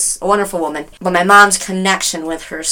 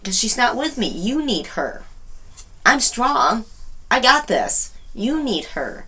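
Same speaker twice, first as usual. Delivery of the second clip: soft, sincere retold comfort; gentle reassurance; 4 semitones higher, 6 dB quieter than usual. Daughter reassuring grieving mom, gentle. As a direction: reassure quietly, dropping softer at the end.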